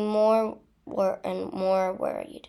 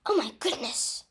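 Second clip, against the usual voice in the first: mild, higher wail of shock; 4 semitones higher than usual. A narrator's reading. Nurse seeing Harry brought in, wailing. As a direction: wail in dismay. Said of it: "wailed Madame Pomfrey".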